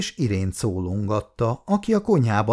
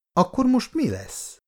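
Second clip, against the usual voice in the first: higher, with the stress on "mi"; sharp, exasperated husband; angry question; 14 semitones higher than usual. A narrator's reading. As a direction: demand an answer, annoyed. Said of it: "kérdezte Bandi dühösen".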